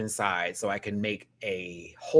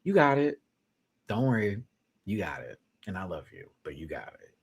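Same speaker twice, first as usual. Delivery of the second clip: tender reassurance; 4 semitones lower than usual. Retold or imitated. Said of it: "very Athena going".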